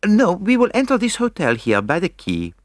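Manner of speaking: put-on high, French-accented insistence; decided Belgian detective. A narrator's reading. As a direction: overrule them as the Belgian sleuth. Poirot insists.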